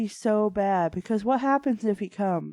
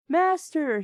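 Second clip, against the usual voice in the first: roared; 7 semitones higher than usual. A narrator's reading. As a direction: roar it out like a butler. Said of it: "he roared".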